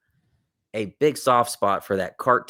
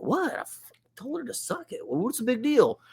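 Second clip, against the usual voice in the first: put-on high, soft, clueless little-kid voice; innocent kid; 14 semitones higher, 5 dB quieter than usual. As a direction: play dumb like a confused child.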